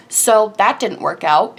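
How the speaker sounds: slow, drawn-out imitation of a doctor; slow, unbothered retold remark; doctor's exact tone. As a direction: imitate an unsympathetic doctor, unhurried and matter-of-fact. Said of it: "in that exact tone".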